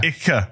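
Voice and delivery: "icke" said as two syllables, hard k; Berlin icke. Shown as a demonstration. Host shows listeners the Berlin "icke", hard k. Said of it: "So he says".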